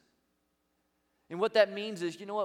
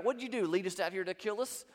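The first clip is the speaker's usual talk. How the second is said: mock outcry of a panicked crowd, building louder and higher; crying out in complaint; 3 semitones higher, 4 dB louder than usual. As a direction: imitate grumbling people crying out, rising to a loud finish. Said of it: "they're crying out".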